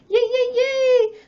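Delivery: slow squealed cheer; excited squeal. Real, not acted. Opening fan mail.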